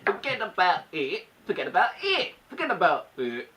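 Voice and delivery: trying it in a British accent; British accent attempt. Shown as a demonstration. Retrying a viewer's requested phrase, British accent. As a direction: practise the British version, take after take. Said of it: "forget about it' with a British accent".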